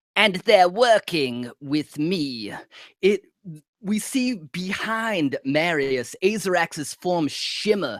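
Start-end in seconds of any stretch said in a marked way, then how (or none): 0.2-2.6 thin, reedy, womanly feminine voice. Narrating a scene, a voice speaks from behind another character, reedy, feminine voice. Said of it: "A reedy, feminine voice".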